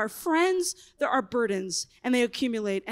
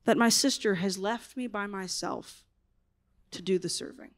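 broken plea; 4 semitones lower than usual. Retold or imitated. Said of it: "She was so broken".

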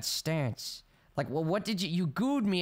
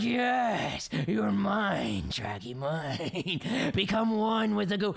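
mock goo villain; 4 semitones higher, much slower than usual. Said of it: "He's like".

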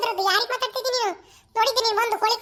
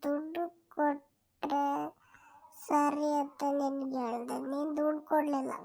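taunting; 5 semitones lower, 5 dB quieter, slower than usual. Acted. Taunting rival in a low voice.

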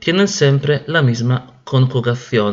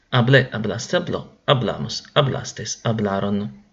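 forms run together in one quick falling chain; "Hablé, hablaste, habló" rattled off fluently, falling at the end; quick run-through; 3 semitones lower, 3 dB quieter than usual. Shown as a demonstration. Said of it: "Vamos a repasar". (repaso seguido y fluido, con entonación descendente)

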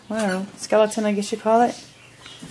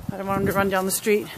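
ordinary talk, nothing marked

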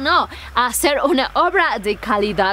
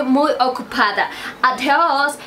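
put-on gringa accent in broken Spanish; American accent, casual farewell. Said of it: "Aunque habla como gringa".

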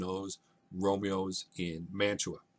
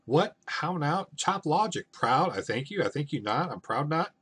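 high, loud, incredulous mock outrage; going off the deep end; 5 semitones higher, 4 dB louder than usual. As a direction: fire off mocking questions as an outraged father. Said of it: "Capulet goes off the deep end".

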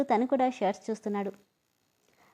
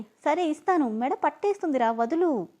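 tearful; 4 semitones higher than usual. Acted. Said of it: "ఏడుస్తూనే".

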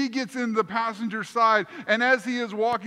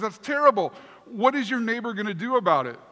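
horrified; 4 dB louder, faster than usual. Retold or imitated. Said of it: "like, horrified".

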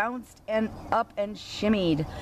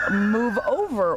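a mild bossy command, slightly raised; bossy order. Acted. Cow bossing the animals in the crowded truck, mild command. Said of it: "ordered Cow".

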